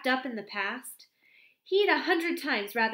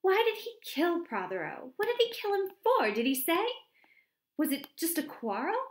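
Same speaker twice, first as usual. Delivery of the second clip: higher, louder outraged chatter; indignant disbelief; 6 semitones higher, 8 dB louder than usual. A narrator's reading. Miss Cram scoffing at Redding's confession, indignant. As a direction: pepper him with baffled questions.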